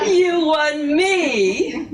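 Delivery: slow, tearful laugh through the words; laughing tearfully. Acted. Kelly tells Walter he won her, laughing tearfully. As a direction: laugh and cry together, slowly.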